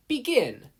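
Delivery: high, loud shout of begin; start call. A narrator's reading. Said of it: "Midnight cracked her whip".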